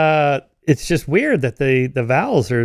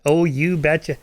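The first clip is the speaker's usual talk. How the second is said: exaggerated Minnesota "you betcha"; playful movie-style Minnesota accent; Fargo Minnesota accent; 3 semitones higher, slower than usual. Interviewee asking about Fargo, mimicking its Minnesota accent. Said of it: "people in the film Fargo, do, do, do people really talk like that".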